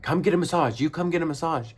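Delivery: hammed-up angry salon owner calling out the door; high mock yell of an outraged shop owner; shouting owner. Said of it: "was like".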